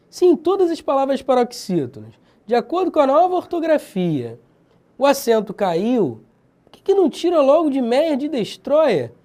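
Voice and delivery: put-on exasperated objection; mock exasperation. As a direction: complain about a pointless rule. Mock complaint against the spelling rule.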